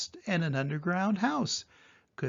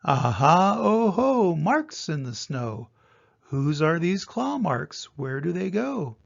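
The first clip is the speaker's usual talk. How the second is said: excited discovery; 4 dB louder than usual. Acted. Child finds a trail, lightly excited. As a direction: pounce on the clue like a brave little monster.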